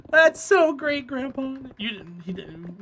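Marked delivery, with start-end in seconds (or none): 0.1-1.6 high, slow mock-impressed praise; humoring delight. Grandchild praising grandfather's counting, high put-on delight. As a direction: gush in a raised, drawn-out voice. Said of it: "You're like".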